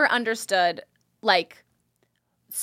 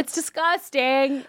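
slow; slower than usual. Shown as a demonstration. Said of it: "Say it slower for me one time".

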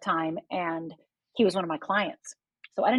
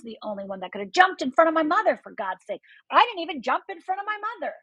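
rising, higher-pitched self-reproach; retold self-blame; 9 semitones higher than usual. Survivor reliving guilt over her mother, pitched-up self-reproach. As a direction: climb in pitch as you relive blaming yourself.

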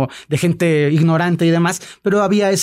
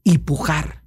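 stern shaman quote; slower than usual. Retold or imitated. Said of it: "la recito como es".

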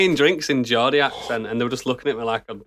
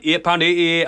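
put-on Geordie accent; 3 semitones higher than usual. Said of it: "he went".

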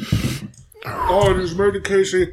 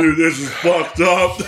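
laughing in pain; slower than usual. Real, not acted. Hot wings, laughing in pain.

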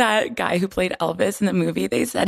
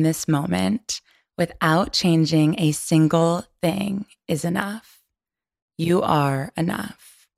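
guided affirmation. Acted. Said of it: "Is my sexy, raspy voice happening right now?".

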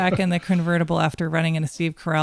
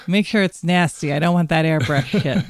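put-on gruff old grandpa, loud; lightly voiced crotchety old man; 3 dB louder than usual. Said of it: "that's my grandpa voice".

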